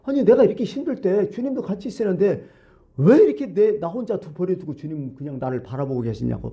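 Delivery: a retold saint's hurt protest, rising then falling away; upset complaint. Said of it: "화가 좀 났어요". (화가 나서 높은 목소리로 하소연하는 성자)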